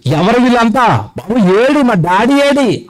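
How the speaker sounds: lightly voiced lost baby, pitch climbing; bewildered newborn. Preacher as a newborn searching for daddy, bewildered.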